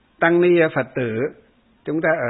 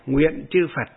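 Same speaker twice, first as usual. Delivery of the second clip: recited verse. Shown as a demonstration. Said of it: "đọc cái bài này".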